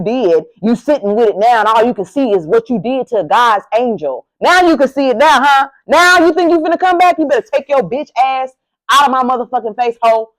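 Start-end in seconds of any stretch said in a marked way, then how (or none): 4.4-10.3 sassy taunt. Acted. Taunting exes who want back.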